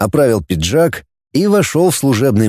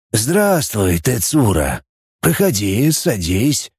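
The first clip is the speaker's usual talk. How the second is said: put-on lower, softer old chief; old boss voice; 3 semitones lower, 3 dB quieter, slower than usual. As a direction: speak low and soft like an aged boss. Old chief greets subordinate.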